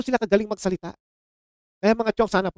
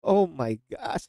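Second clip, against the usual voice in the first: mock exasperated sigh; 4 dB quieter, much slower than usual.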